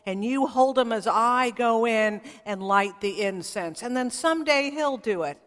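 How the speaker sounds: proud, puffed-up boast to his wife; bragging. Retold or imitated. Husband bragging to his wife about future sons, a touch boastful. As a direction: strut a little as you promise. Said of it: "he's bragging to her".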